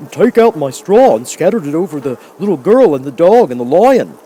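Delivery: urgent scarecrow. Acted. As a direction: hurry your friend with the plan. Scarecrow instructs the woodman.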